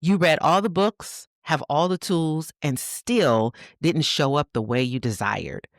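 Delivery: affirmation reading. Acted. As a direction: read it like a soothing letter to a mother. Reads affirmation to mothers.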